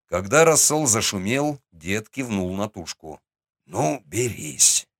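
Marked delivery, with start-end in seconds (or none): 3.7-4.9 голос старика. Acted. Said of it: "велел он".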